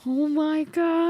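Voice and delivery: gasping, high, slow retold shock; shocked oh my God. Watching a bagel server argue, gasping retold shock. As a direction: gasp then drag it out in disbelief.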